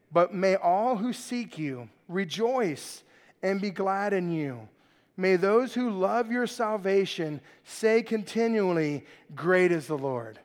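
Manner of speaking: slow, measured psalm reading; scripture reading. Real, not acted. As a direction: read the verse out slowly to the congregation. Reads the psalm aloud.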